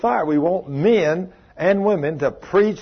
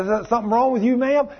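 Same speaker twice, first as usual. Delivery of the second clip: concerned question; 7 semitones higher, faster than usual. Retold or imitated. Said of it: "and I said".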